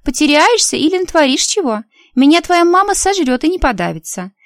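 huffy and bossy; indignant girl. A narrator's reading. Friend continuing indignant.

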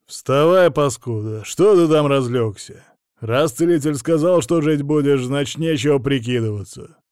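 loud, harsh voice from nowhere; disembodied voice. Acted. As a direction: bark it from out of the darkness. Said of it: "произнёс голос из ниоткуда".

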